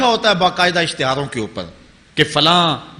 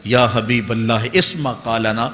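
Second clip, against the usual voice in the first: slow, lower-pitched Arabic invocation; measured, drawn-out devotional quotation; recited supplication; 5 semitones lower than usual. Retold or imitated. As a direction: recite the retold plea low and unhurried. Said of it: "جنہوں نے کہا تھا".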